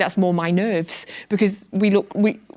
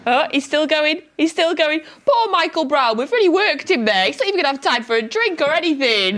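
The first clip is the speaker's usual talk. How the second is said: amused; 9 semitones higher, 4 dB louder than usual. Real, not acted. Laughing at Brown still running.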